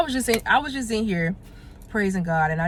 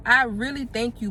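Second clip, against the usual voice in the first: retold prayer of thanks. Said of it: "at my desk crying".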